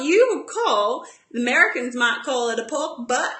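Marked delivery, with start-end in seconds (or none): 2.6-3.3 put-on light, clumsy stab at an American accent; attempted American accent. Cook names the cut as Americans would, rough American accent. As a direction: have a half-hearted go at sounding American. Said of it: "I'm not very good at accents".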